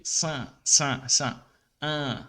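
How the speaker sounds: syllables split slowly; cin, cin, cin, un, em sílabas separadas; French cinquante. Shown as a demonstration. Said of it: "lembrando do cinquante". (pronúncia francesa de cinquante, sílaba por sílaba)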